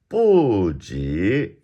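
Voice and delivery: "部" falling from high, "级" rising; fourth then second tone. Shown as a demonstration. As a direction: drop "部" long, then swoop "级" upward. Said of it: "fourth, second".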